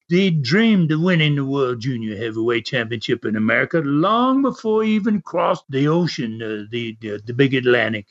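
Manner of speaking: lightly imitated English accent. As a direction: retell the promo with a hint of English accent. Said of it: "try to do a little English accent".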